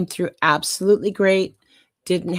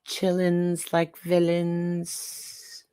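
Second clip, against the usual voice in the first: slow, drawn-out gangsta swagger; mock gangsta; 5 dB quieter, much slower than usual. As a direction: play it cool like a gangster. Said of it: "don't try to be gangsta".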